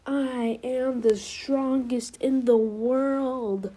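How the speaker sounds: bold boast. Retold or imitated. Deku boasting to the shocked examinees, slow and bold. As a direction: declare it like a champion.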